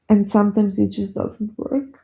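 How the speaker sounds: real tears coming up mid-sentence; trying to get it out before crying; starting to cry. Real, not acted. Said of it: "I didn't mean to cry".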